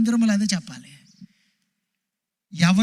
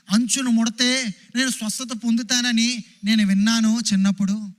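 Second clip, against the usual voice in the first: higher, pleading voice of a desperate woman; woman speaking her hope to Jesus, pleading and higher; the sick woman's thoughts; 4 semitones higher than usual. Acted. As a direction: plead as the outcast woman who came for healing. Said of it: "ఇంకా ఆ స్త్రీ అనుకుంది".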